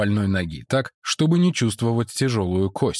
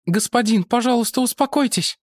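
high woman's voice; woman character; 13 semitones higher than usual. Acted. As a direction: Mara greets the monk, pitched high. (Мара приветствует монаха высоким женским голосом)

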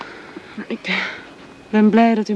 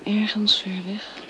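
whisper; 6 dB quieter than usual. Acted. Marion missing Jaap.

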